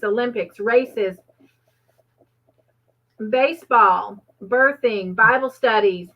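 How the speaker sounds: talking through a mouthful; words around a bite of food; mouth full. Real, not acted. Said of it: "I talked with my mouth full".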